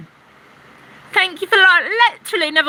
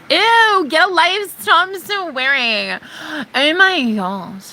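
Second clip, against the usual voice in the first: mocking prissy troll; 5 semitones higher, slower than usual. Mimicking a troll who scolds her swearing, high and whiny. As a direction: sneer it like a scandalised prude.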